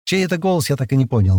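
ordinary delivery

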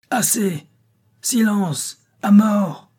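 high, loud shouts of the mob; crowd shouting. A narrator's reading. The furious crowd shouting down Méa before the sultan. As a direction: bark it out as the angry crowd. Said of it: "crièrent sans voix de la foule".

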